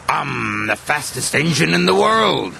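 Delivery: show-off brag, a little high; boastful. A narrator's reading. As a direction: brag to everyone. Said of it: "he boasted".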